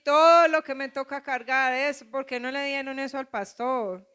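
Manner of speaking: mock self-pitying whine to God; whiny complaining believer. Preacher mimics a believer complaining to the Lord, whiny. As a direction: ham up a believer moaning about his burden. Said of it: "le decimos al Señor".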